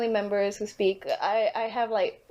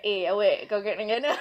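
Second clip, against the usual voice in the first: put-on Malaysian accent; faster than usual. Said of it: "I'm gonna try to not sound like".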